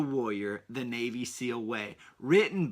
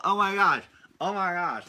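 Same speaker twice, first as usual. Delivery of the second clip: higher and louder, hammed-up delight; playful listener suddenly getting the idea; mock delighted gasp; 6 semitones higher, 5 dB louder than usual. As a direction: sell it as a sudden brilliant idea. Mock parent's delighted realization.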